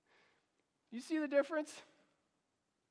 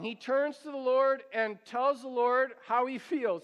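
ordinary talk

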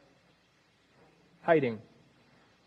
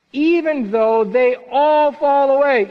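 boastful Peter; 7 semitones higher, 5 dB louder than usual. Acted.

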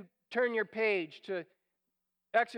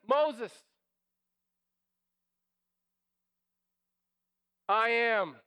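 a strong, louder divine answer; booming proclamation; 4 dB louder, slower than usual. Pretend. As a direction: declare it loud and firm, as God.

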